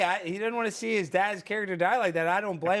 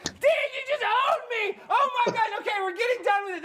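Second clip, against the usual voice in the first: laughing; 11 semitones higher than usual. Real, not acted. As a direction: laugh through it, owned. Host laughing after a burn.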